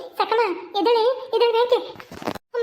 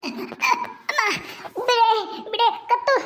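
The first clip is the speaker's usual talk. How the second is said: high, strangled pleading; choking; 4 semitones higher, much slower than usual. Acted. Woman being strangled begs for release, choked cries. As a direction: gasp the words out through a squeezed throat.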